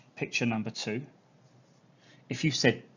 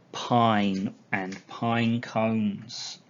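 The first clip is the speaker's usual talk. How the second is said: drawn out slowly; slow and savouring; much slower than usual. Real, not acted. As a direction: linger on each word. Savouring the smell.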